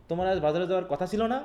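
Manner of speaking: না with a rising end, pushed; stress on না. Shown as a demonstration. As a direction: lean on the final না and lift it. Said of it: "এই জায়গায় আমি ... জোর দিচ্ছি".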